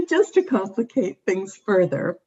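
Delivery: choppy connection, words dropping out; radio breaking up. Real, not acted. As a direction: audio cutting in and out. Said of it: "you were breaking up when you were explaining that".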